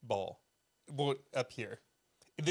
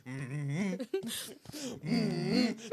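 long wordless hum; manly group hum. Retold or imitated. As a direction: hum like a pre-game ritual. Re-enacting pre-game group hum.

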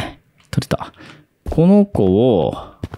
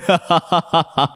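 high, rapid burst of real laughter; laughing; 4 semitones higher than usual. Real, not acted. Streamer spots something moving in the game, laughing. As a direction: crack up in rattling little laughs.

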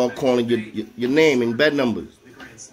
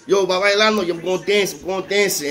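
higher-pitched, upbeat retold call; hyped-up boasting; 5 semitones higher than usual. Telling the floor he has a visit, hyped up. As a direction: announce it like you're showing off.

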